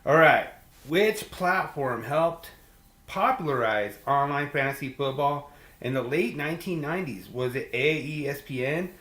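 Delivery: lightly voiced quiz-show host reading options. Host putting the fantasy question to listeners, quiz read.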